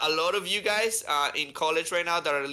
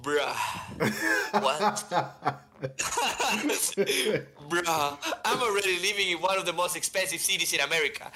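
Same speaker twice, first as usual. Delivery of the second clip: incredulous disbelief; 3 semitones higher than usual. Retold or imitated. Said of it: "I was like".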